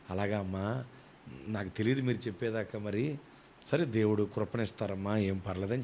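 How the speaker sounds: low, soft, forgiving reply; gentle reassurance. Retold or imitated. Pastor tells apologising sister it is fine, gently reassuring. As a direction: reassure her softly, pitched well down.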